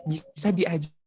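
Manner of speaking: garbled, dropping-out connection; words lost to a bad line; choppy audio. Real, not acted. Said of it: "Suaranya putus-putus". (suara putus-putus)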